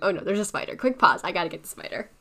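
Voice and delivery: sudden alarmed exclamation, rising to a loud burst; jumpy, real fright at a spider; startled by a spider. Real, not acted. Spider suddenly found in room.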